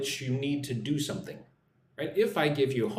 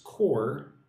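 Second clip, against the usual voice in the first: Quarterly stretched out slowly, each syllable apart; slow demo. Shown as a demonstration. Teacher answers a viewer who finds it hard, saying it slowly. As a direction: drag Quarterly out slowly for learners. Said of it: "Just say it slowly like this".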